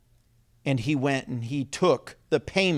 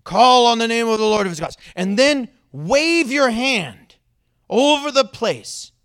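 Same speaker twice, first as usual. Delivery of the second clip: mock-grand proclamation, stretched and pitched up; dramatic ritual; 5 semitones higher, 7 dB louder than usual. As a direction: ham it up like a showy faith healer. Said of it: "do some dramatic thing".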